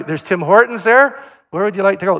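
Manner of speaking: teasing loud hint to a grandson; pointed hint. Retold or imitated. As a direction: nudge the kid toward Tim Hortons. Hinting repeatedly, mock insistent.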